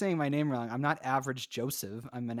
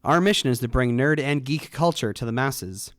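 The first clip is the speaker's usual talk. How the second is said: punchy host introduction; podcast intro read; 8 dB louder than usual. Acted. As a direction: announce yourself to open the show. Scripted show intro.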